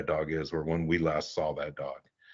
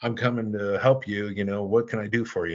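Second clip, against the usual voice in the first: higher-pitched imitation of a Southern caller; Southern US accent; 4 semitones higher than usual. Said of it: "calls me up with this Southern accent".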